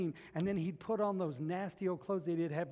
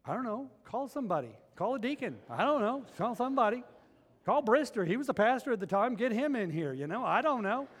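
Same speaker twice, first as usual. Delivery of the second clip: higher and louder, flustered; flustered panic; 6 semitones higher, 5 dB louder than usual. Retold or imitated. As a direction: throw up your hands, call for help. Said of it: "And I thought".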